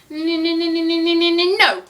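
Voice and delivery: high stuttered build-up to no. Pretend. Vlogger rejecting her own guess, playful suspenseful no. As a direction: stall on a high run of n's, then land NO.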